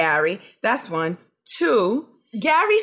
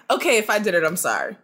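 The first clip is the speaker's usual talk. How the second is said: low, mumbled half-apology; grudging apology; 4 semitones lower, faster than usual. Retold or imitated. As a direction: shrug it off, trailing lower. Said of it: "And then he's like".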